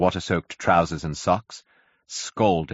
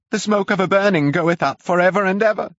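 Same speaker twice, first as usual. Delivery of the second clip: high, louder, demented prophecy; shouting curate; 14 semitones higher, 6 dB louder than usual. A narrator's reading. Demented curate shouts scripture at the narrator. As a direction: shout the verse like one demented. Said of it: "he shouted".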